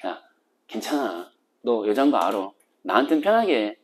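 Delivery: hushed, easy-going reassurance; husband quietly reassures his disguised bride, hushed; softly reassuring. Retold or imitated. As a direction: tell her gently it's fine. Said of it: "이렇게 이틀째는 까버린다고".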